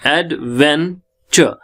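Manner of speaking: "एडवेंचर" slowly as ad, ven, chuh; no t before the "ch" in "एडवेंचर"; silent t. Shown as a demonstration. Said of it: "ये ट silent है". ("एडवेंचर" में ट चुप, धीरे-धीरे)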